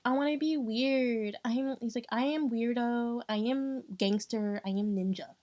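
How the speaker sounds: slightly slowed mimicry of a self-styled weirdo; Pierre. Streamer mimicking Pierre's self-promotion, lightly mocking. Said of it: "Pierre be all like".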